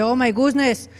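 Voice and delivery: high, scandalized piglet voice; hammed-up high-pitched dismay; mock shock. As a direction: exclaim like a shocked pious pig. Moral piglet shocked at dirty money.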